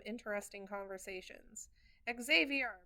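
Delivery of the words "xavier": calling name loudly, a bit higher; grandma shouting. Retold or imitated. Grandma calls out to grandpa, loud. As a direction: shout the name across the room. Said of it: "my grandma shouts at Grandpa".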